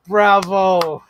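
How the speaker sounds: laughing out bravo; delighted laugh. Real, not acted. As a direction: break into laughter at it. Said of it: "What an image to end on".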